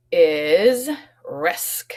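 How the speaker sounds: whispered new word, risk. Shown as a demonstration. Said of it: "unvoiced reveal".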